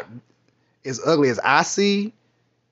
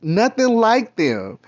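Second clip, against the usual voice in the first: slow dismay; 3 semitones lower, much slower than usual. Retold or imitated. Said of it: "I was like".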